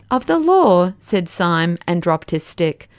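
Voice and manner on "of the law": high, loud incredulous echo; can't believe the words; astonished. A narrator's reading. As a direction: Syme stunned at being arrested, echoing in disbelief. Syme astonished.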